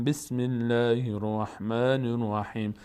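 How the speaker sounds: بسم الله الرحمن الرحیم recited slowly after توابا; joined reading. Shown as a demonstration. Teacher shows joining the sura to the next basmala. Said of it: "اگر ما بخوایم اینجوری بخونیم".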